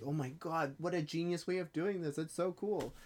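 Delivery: imagined fan's thrilled reaction; gushing. Retold or imitated. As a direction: marvel at something clever.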